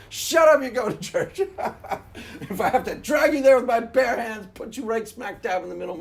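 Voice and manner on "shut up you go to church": loud sharp shut up, louder still; hammed-up parent shouting; mock parent yell. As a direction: bark it down at the kid. Mock parent silencing kid.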